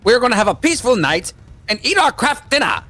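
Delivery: hammed-up Canadian about craft dinner; mock Canadian. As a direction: play the cheery Canadian. Mocking Canadians, voice raised.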